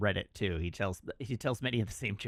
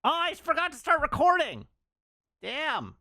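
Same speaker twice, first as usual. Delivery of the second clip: surprised; 5 dB louder than usual. Real, not acted. Realizes recording was off.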